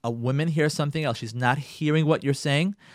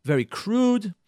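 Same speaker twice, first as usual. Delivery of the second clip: a critical, disapproving "very crude"; criticizing tone; slower than usual. Shown as a demonstration. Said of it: "sounds criticizing".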